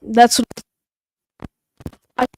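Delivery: choppy broken-up connection; cutting out. Real, not acted. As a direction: audio dropping out mid-word. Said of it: "you're cutting out".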